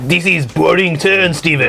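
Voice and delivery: put-on French accent. Teasing Stephen about his turn, mock French accent. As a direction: complain as a comic Frenchman.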